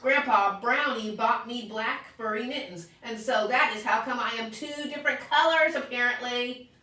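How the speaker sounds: very high, loud excited explaining; child bursting with news; excited shout. Acted. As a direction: blurt out the news, thrilled. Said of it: "I shouted".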